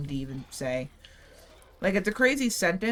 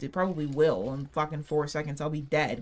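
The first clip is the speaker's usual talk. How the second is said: normal talking voice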